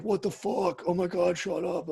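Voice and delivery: hammed-up what the fuck, shut up; mock exasperated outburst. Acting out his snapping reaction.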